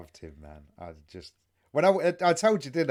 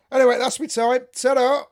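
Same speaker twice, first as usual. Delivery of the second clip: higher, louder showman sign-off; bow out with a cheeky flourish, higher and louder; Billy Connolly's abrupt sign-off; 9 semitones higher, 8 dB louder than usual. Retold or imitated. Telling a friend how Connolly ended his gig, mock showman flourish. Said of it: "he went".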